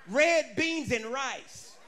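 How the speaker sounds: half-laughing shout of the menu; slow laughing shout. Acted. Preacher to congregation, a slow laughing shout. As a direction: stretch it out, loud and laughing.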